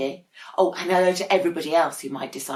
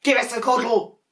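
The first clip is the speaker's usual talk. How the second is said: louder, higher, gushing over the penguin; doting big man; 7 semitones higher, 7 dB louder than usual. Acted. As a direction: coo at the adorable penguin. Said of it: "said the great big man".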